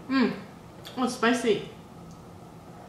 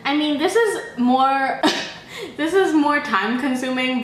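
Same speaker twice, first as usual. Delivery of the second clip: laughing through the words; 4 dB louder than usual. Real, not acted. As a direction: chuckle while saying it. Laughs mid-sentence.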